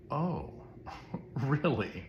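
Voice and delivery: a short laugh, then a high skeptical really; retelling the master's scoffing laugh; mock amused disbelief. Master hears of unmerciful servant.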